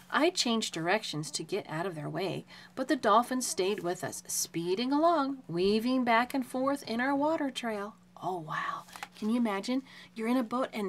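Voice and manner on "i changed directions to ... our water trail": put-on animated read-aloud to a child; story reading. Shown as a demonstration. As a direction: read it like an unfolding adventure.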